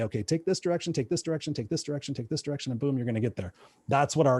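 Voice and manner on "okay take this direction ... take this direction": mock navigation voice, fading softer each time; imitating a sat-nav reading directions; GPS voice. Mimicking his car's GPS giving directions, softer and softer. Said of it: "it's gonna say".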